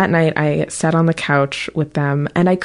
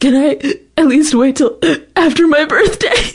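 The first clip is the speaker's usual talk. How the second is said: very high-pitched, tearful, sobbing, pleading tone; 10 semitones higher, 4 dB louder than usual. Retelling own words to a parent while sobbing: imitating own sobbing plea. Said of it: "I'm sobbing".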